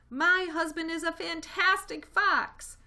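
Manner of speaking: high, loud, slow proud exclamation; proud toast. A narrator's reading. Missus Fox praises her husband, loud and proud. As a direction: burst out with pride for him.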